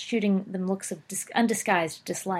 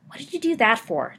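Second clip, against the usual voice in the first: demanding; 3 semitones higher, 5 dB louder than usual. Acted. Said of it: "demanded Sirius".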